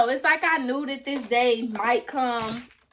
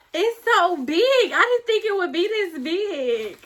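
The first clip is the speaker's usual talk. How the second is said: higher-pitched delighted surprise; amazed excitement; 6 semitones higher than usual. Real, not acted. Creator seeing the size of her award, real amazement. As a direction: marvel at it, pitch lifted.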